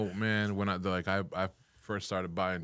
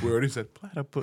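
mocking imitation; 5 semitones higher than usual. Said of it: "he's like".

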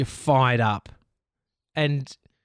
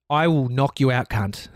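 retold threat; 3 dB louder than usual. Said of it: "I said to him".

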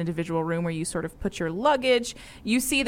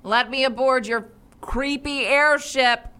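knight shouting back; 4 semitones higher than usual. Acted. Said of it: "He shouts back".

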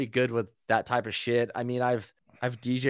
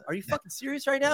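incredulous; 10 semitones higher, 6 dB quieter, faster than usual. Retold or imitated. Incredulous at clueless tour DJ.

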